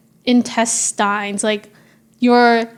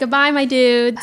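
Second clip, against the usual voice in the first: ASMR whisper. Acted. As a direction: whisper the goodbye, ASMR style. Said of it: "A S M R".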